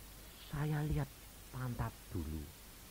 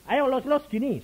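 coaxing demo; 13 semitones higher, 7 dB louder than usual. Shown as a demonstration. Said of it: "saya kasih contoh saja".

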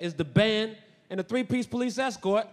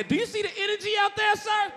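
excited shout; 11 semitones higher than usual. Retold or imitated. Yelling at a bar about parade.

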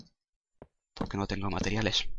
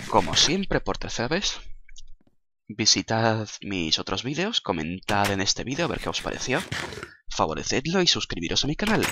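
upbeat outro; 3 dB louder than usual. Acted. Outro call to subscribe.

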